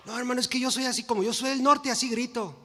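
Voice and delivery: lively mock yell of a proud northerner; mock loud excuse. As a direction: play the loudmouth justifying himself, hammed-up.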